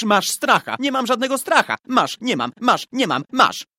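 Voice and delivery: put-on loud, high-pitched childish bickering; heated boys' quarrel. A narrator's reading. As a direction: hurl taunts back and forth at full voice. Escalating boys' quarrel in story. (głośna, zaczepna kłótnia chłopców)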